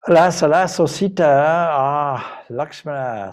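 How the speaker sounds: a demon wailing in Rama's voice to lure them; Maricha's fake cry. A narrator's reading. Demon Maricha wailing to trick Sita, loud and high. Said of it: "so cries Maricha, simulating Rama's voice".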